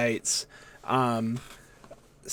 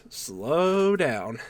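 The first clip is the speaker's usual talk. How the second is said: stretched-out, acted "slow down"; drawn-out reply. Wrestler answers colleagues' retirement questions, drawn-out mock protest. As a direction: draw both words right out.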